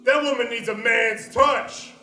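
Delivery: mock creepy UPS guy; leering delivery guy. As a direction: lay it on slow and suggestive. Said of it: "the U P S guy stands there just going".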